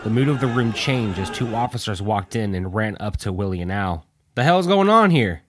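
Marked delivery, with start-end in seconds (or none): 4.4-5.4 high, loud demanding shout; officer's yell. A narrator's reading. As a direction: break up the fight with authority. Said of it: "yelled out one of the officers".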